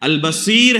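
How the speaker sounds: البصیر said slowly with a long ee, al-Baseer; al-ba-SEER, drawn out at the end; correct pronunciation. Shown as a demonstration. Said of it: "جس تلفظ کے ساتھ".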